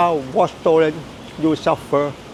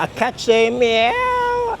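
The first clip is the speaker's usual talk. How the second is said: slow teaching voice; 6 semitones higher, much slower than usual. Shown as a demonstration. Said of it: "teaches the sentence slowly".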